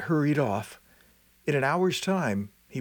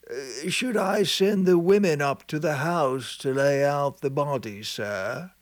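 slow, lightly voiced old man, dutiful; 2 semitones higher, slower than usual. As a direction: accept the orders with a sigh. Sexton accepts orders.

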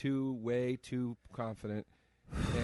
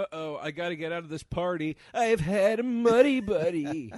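panicked partygoer; 6 semitones higher, 8 dB louder than usual. Pretend.

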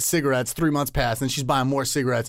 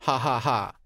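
mock breezy reply; slower than usual. Comedian reading girl's months-late text, mock casual. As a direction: read her text mockingly, laugh spelled out. Texted reply read out mockingly.

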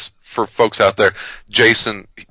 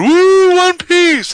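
very high, excited cheer; mock fan cheer; 7 dB louder, much slower than usual. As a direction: cheer like a giddy anime fan. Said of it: "Julian is out there going".

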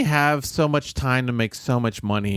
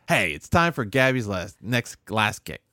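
mock host intro; 3 semitones higher than usual. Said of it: "This, this is just".

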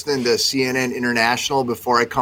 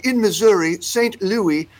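put-on British newsreader accent; 5 semitones higher than usual. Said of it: "referred to Saint Louis as Saint Louis".

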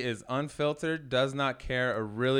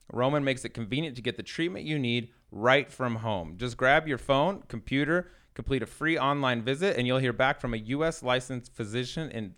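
ad read. Acted. Host reads a Roman sponsor spot to listeners, upbeat ad voice. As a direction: sell it like a podcast host ad spot.

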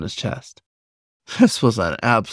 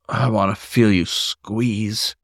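slow growl; slower than usual. Acted. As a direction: growl it slowly into his ear. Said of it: "he growled".

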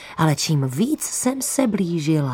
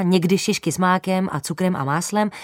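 ordinary delivery

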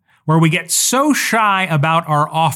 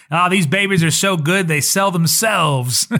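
slick salesman; 2 semitones higher than usual. Retold or imitated. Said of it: "that slick salesman".

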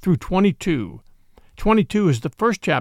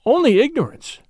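"Only ignorance" thrown back, much higher and louder, stress on "Only"; startled outburst; 7 semitones higher, 3 dB louder than usual. Acted. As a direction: fling the words back in disbelief. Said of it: "John's voice almost startled me".

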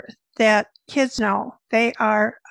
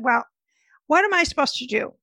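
retold exasperation; 3 semitones higher, faster than usual. Mother cornering the dietitian for answers, mildly exasperated. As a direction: throw it out fast, imitating a fed-up mother. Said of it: "she was getting madder and madder".

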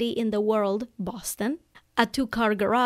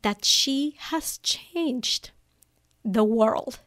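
teary-eyed; much slower than usual. Real, not acted. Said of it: "I'm getting teary-eyed now".

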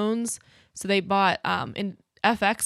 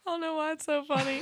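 trying not to laugh; 6 semitones higher, 6 dB quieter than usual. Real, not acted. Laughing at cohost.

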